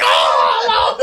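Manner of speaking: loud laughing hype yell; hype man shout. Retold or imitated. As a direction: bark it like an overhyped hype man. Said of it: "He's like".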